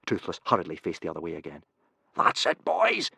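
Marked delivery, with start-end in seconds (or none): 2.2-3.1 pleased, hearty praise; delighted. Acted. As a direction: cheer the boys on gladly. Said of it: "said Gobber delightedly".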